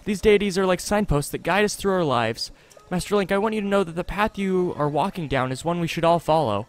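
lightly acted shy devotee; earnest, hesitant character reading, kept gentle; timid villager. Voices a shy game character.

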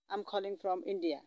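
slow, deliberate English phrase; slow teaching demo. Shown as a demonstration. Teacher showing students how to answer, slowly. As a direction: spell it out slowly for the learner. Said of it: "এইভাবে বলবেন".

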